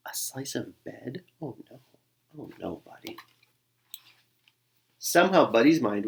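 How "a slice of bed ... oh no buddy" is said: dismayed. Acted. Mother dismayed at wrong item.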